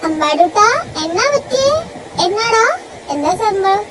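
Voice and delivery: high, sing-song coaxing voice; coaxing a child. Acted. Auntie coaxing a sulking little boy, high sing-song. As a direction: coax a sulking little boy out of his mood.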